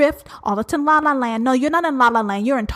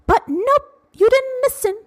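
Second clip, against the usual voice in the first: exasperated scold; 13 semitones higher, slower than usual. Real, not acted.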